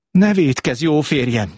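high opening, then easing down; earnest storybook plea; pleading. Acted. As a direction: implore your husband gently. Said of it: "könyörgött".

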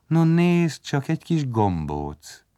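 high exclamation easing into light reassurance; smiling mother. A narrator's reading. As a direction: say it with an audible smile. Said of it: "És mosolygott". (mosolygós, megnyugtató anyai hang)

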